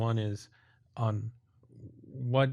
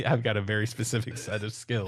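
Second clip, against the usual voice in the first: Taken movie quote. Retold or imitated. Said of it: "what's the actor in Taken?".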